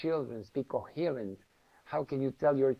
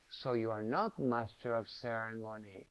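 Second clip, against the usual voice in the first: soft teasing guru; 4 semitones lower, 6 dB quieter than usual. Retold or imitated. Guru teases him when he forgets.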